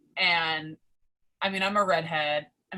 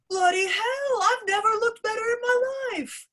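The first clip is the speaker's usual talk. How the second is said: put-on high, gasping star-struck accented voice; Becky voice; 3 dB louder than usual. Becky passing the fan, high gasping gush. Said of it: "she turns and she goes".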